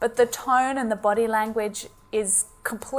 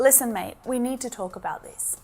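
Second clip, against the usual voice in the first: confronting; 6 dB quieter than usual. Shown as a demonstration. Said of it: "with a shift in tone, it can also be used to confront".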